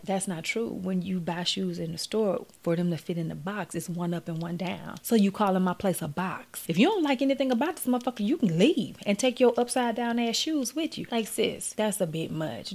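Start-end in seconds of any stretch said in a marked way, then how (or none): 0.0-11.1 put-on boyfriend getting heated. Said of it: "And he's like".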